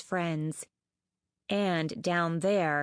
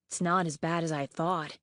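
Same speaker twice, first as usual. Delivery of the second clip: reassuring whisper; 2 semitones lower than usual. A narrator's reading. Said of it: "whispered to her, trying to be reassuring".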